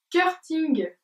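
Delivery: English title in a slow French accent. Real, not acted. Vlogger attempting an English nail polish name, French accent. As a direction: read the English slowly with a real French accent. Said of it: "toujours mon super accent".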